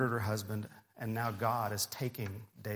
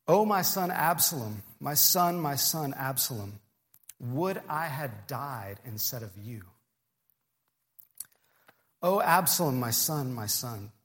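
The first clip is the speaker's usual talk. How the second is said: a touch of a father's wail, then fading; grieving lament; 4 dB louder than usual. Retold or imitated. Preacher voicing David mourning Absalom, mock lament fading. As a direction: cry out the first words, then let them sink. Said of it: "This is terrible grief on David's part".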